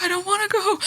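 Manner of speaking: lightly voiced Spider-Man farewell; Tom Holland impression. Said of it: "like, Tom Holland being like".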